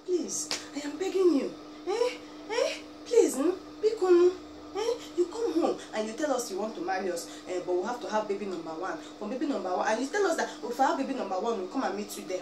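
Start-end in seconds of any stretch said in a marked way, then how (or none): none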